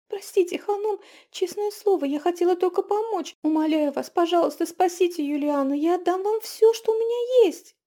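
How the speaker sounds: high, loud desperate plea; pleading cry. A narrator's reading. Girl begs the witch to save her husband, high and loud. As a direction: cry out, begging. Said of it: "выкрикнула она".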